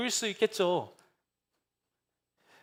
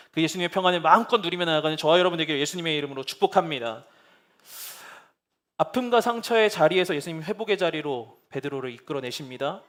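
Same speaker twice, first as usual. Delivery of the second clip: ordinary delivery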